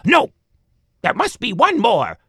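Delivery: put-on high, loud old woman insisting; man doing granny voice. A narrator's reading. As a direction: shriek it like a stubborn granny.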